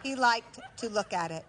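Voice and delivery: deliberate stage delivery with measured pauses; comic storytelling to a live audience; theatrical monologue. Acted. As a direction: punch key words, then pause for the laugh.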